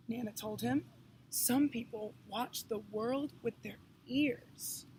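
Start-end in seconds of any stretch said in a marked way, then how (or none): 1.3-4.9 put-on slow, soft, wise old man; a hint of a gentle blind man; lightly voiced old man. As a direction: speak slowly like a wise elder.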